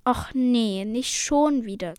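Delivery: mildly exasperated groan of protest; sighing complaint. Acted. Selena faced with fish soup again, sighing complaint. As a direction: complain with a touch of a sigh. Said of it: "seufzte Selena".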